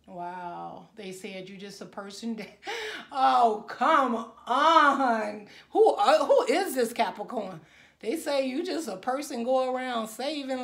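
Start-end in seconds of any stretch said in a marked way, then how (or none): 2.8-7.6 laughing. Real, not acted. Reader laughs at the card's message.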